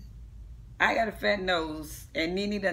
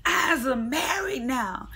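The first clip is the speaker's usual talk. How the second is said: mock crying brag; 5 semitones higher, slower than usual. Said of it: "And I said".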